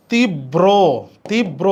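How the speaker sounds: "তীব্র" as tib-bro, broken after the first b; doubled B. Shown as a demonstration. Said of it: "তাহলে ব দ্বিত্ব".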